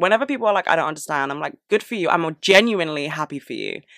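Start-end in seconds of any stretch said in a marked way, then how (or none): 1.7-3.7 put-on sincere tone that comes out sarcastic. Speaker repeats what they tell people who don't understand, retelling own sarcastic-sounding line. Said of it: "I sound sarcastic every time I say that".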